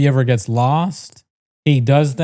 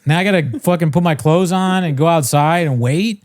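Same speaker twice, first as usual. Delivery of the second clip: higher, exasperated mock rant; fed-up outburst; 4 semitones higher than usual. Man retelling his annoyed reaction to going outside, exasperated. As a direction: vent like you can't believe you must go out. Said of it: "I was like".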